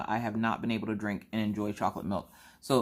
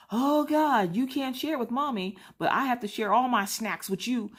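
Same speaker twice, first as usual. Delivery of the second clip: mock whining; 12 semitones higher than usual. Mock whining about sharing with kids.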